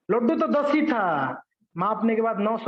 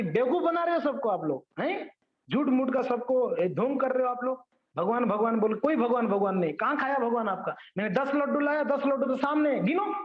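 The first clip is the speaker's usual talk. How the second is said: higher, taunting triumph that climbs to the end; mocking accusation; 5 semitones higher than usual. Englishman taunts the priests that the laddus are uneaten, jeering. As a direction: jeer at them for being fools.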